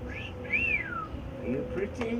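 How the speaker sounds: very high, slow, drawn-out coo. Acted. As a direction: stretch it up high like cooing to a pet. Cooing at bird in bath.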